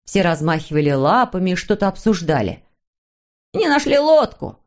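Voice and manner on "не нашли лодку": high-pitched excited call; excited cry. Acted. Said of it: "закричал Снусмумрик". (взволнованный высокий выкрик)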